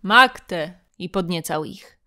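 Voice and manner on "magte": single loud Magte with a long fall; Caesar's cry. Acted. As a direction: call out Magte, egging them on. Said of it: "powtarzał".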